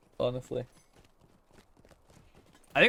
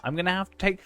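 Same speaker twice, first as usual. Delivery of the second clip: playful stern warning; mock stern; 8 semitones higher, faster than usual. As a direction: jokingly threaten to take it away. Threatening to take command away.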